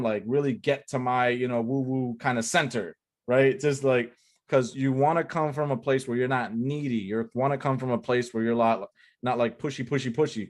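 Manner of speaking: usual speaking voice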